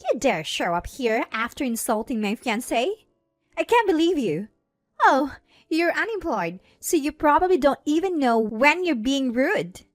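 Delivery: berating. A narrator's reading. Bride berates her sister before the guests, indignant. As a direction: scold her with open contempt. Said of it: "continues to berate me".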